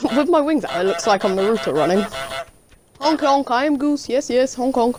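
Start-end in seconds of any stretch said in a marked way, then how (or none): 3.0-5.0 silly clown. Pretend. Playing goose, honking.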